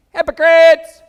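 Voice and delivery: loud high shouted hypocrites; thundering rebuke. Acted. Pastor shouting Jesus' rebuke at the Pharisees. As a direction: hurl the word like a verdict. Scripture reading climax.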